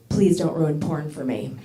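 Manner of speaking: slow, lightly voiced pleading ex; a hint of a wide-eyed boyfriend. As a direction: beg him slowly not to spoil it. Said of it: "He just looked at me all wide-eyed and said".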